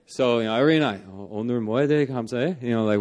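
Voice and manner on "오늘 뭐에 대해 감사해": a quick casual Korean question; fast Korean bedtime question; spoken Korean. Shown as a demonstration. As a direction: rattle off 오늘 뭐에 대해 감사해 fast and casual. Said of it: "we do it in Korean".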